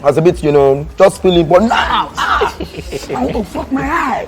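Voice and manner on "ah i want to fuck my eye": high, slow gasp from pepper; wincing at spicy heat; mouth on fire. Real, not acted. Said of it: "my mouth is on fire".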